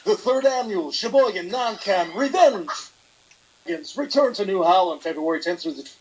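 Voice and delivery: announcer voice. Acted. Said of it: "do it in your announcer voice".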